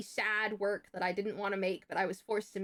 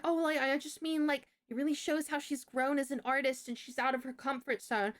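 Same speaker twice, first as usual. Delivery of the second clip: slightly raised, flustered backpedalling; fumbling teacher; 4 semitones higher than usual. Retold or imitated. Teacher fumbles an excuse to an angry mom, mildly flustered imitation. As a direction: imitate a teacher scrambling to explain herself. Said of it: "And the teacher's fumbling".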